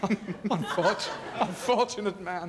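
bursting into laughter; laughing. Real, not acted. Guest recalling the ill-fated Carson show, laughing hard. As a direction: laugh it out as you speak.

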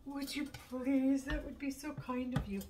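pleading sweetly, lightly acted; retold plea. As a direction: replay a grateful plea for a favor.

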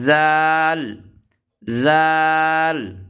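জাল held long for three alif counts; three-count stretch. Shown as a demonstration. Teacher stretching জাল for learners. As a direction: draw জাল out slowly and evenly. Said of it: "আবার জালে রয়েছে তিন আলিফ".

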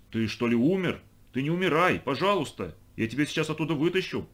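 lightly voiced worried boy; anxious pleading. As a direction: plead gently urgent, pitch lifting. Boy begs frog not to die. (встревоженно, с лёгкой мольбой)

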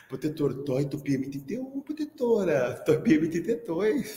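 put-on a light childish lisp; lisping little girl. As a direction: mimic a kid with a tongue-tie. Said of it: "Sofia tinha língua presa". (imitando de leve a menina de língua presa chamando o professor)

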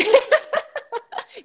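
high, giggly burst of laughter; amused high chuckle; real laugh. Real, not acted. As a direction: laugh at the memory, pitched high. Laughs recalling the teacher's message.

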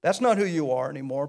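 soft reassurance. Acted. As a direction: say it softly, like a comfort. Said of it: "soft restatement of same line".

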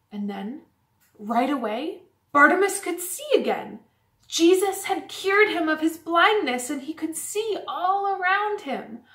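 storybook reveal, pausing before the miracle; story narration for children. A narrator's reading. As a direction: read the happy ending with rising lift.

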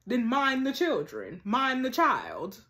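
put-on slow, drawn-out stress on "mind the children"; scolding emphasis. Telling off the childminder about her husband, slow scolding stress on "mind". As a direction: lean hard and slowly on "Mind the child".

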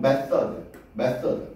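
method의 th를 혀끝소리로; method, th를 ㅆ과 ㄸ 사이로; 번데기 th 발음. Shown as a demonstration. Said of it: "번데기 발음이라고 그래". (method의 가운데를 th로)

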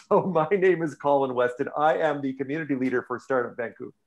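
slightly hoarse voice; losing voice. Real, not acted. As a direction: voice starting to go. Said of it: "Losing my voice here already".

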